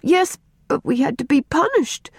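put-on high, earnest girl; keen little girl justifying herself; child explaining. A narrator's reading. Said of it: "explained Faith".

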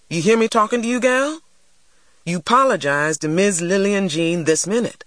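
stern, threatening order; angry demand. A narrator's reading. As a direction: demand an apology from a child. Mister Sims demands an apology.

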